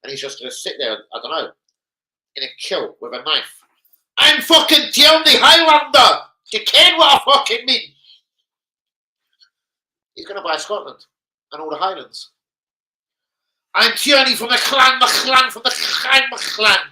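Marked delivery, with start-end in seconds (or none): 4.2-7.9 hammed-up Scottish warrior shout; mock Highlander. Imitating Tierney as Highlander. 13.7-16.8 loud, high chanted boast; much higher and louder hammed-up warrior; mock clansman. Tierney clan chant.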